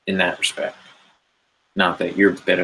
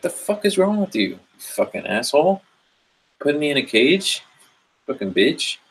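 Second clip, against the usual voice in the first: angry tiger; 7 semitones higher than usual. Retold or imitated. Tiger attacks after cage opens.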